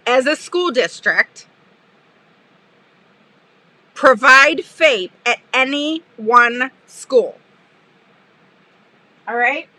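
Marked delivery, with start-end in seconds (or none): 0.1-7.4 mocking quote. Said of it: "this is what she said".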